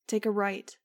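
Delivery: loud shouted direction. A narrator's reading. Max shouting directions to Angel in the tunnel, loud. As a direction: call it out over the flight. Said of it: "I shouted at Angel".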